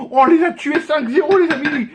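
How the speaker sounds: laughing gleefully while shouting. Real, not acted. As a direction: gloat with a laugh in the voice. Gloating over five-nil win.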